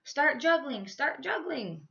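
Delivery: high urgent yell; panicked call to the jugglers. Acted. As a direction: shout the order in a panic. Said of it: "Indiana yelled".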